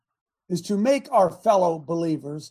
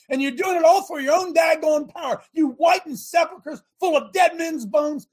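Jesus rebuking; 8 semitones higher than usual. Retold or imitated. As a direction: thunder at the Pharisees as Jesus. Jesus rebuking the Pharisees, voiced.

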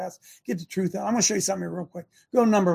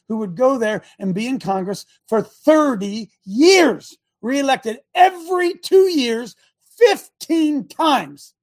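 rising preacher outrage; 2 semitones higher, 4 dB louder, slower than usual. Real, not acted.

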